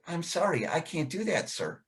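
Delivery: put-on softly, a boy shrinking from the teacher; a hint of a timid boy, voice dropping away; meek apology. Boy apologizing to the teacher, quiet and meek.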